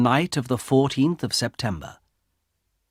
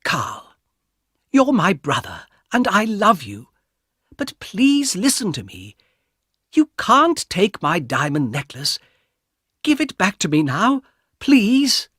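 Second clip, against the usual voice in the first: high pleading plea, rising to a desperate please; pleading sister; 8 semitones higher than usual. A narrator's reading. Sister pleading with her brother to return her necklace, high and pleading. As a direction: beg her brother gently but urgently. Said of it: "said in a quieter voice".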